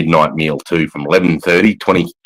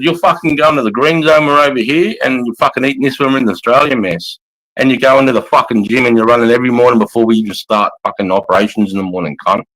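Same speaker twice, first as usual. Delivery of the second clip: stern orders; 4 semitones higher than usual. Retold or imitated. Sergeant ordering soldier to gym.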